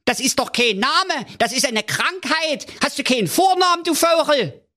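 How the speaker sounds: high, fast scolding king; raging king. A narrator's reading. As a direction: scold the servant in a fury. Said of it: "tobte der König".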